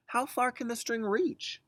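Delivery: put-on child voice. Twins asking mom how far, wondering child voice.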